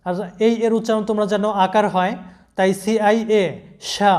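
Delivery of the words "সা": সা with a "sh" sound and open vowel; pronunciation demo. Shown as a demonstration. Teacher shows how C-I-A sounds as সা, pronunciation demo. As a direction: say সা as "shaa", like তালব্য স. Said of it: "উচ্চারণটা হবে".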